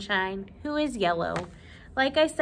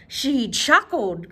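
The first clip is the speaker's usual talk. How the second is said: mild tearful cry; 5 dB louder, slower than usual. Acted. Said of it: "cried the king".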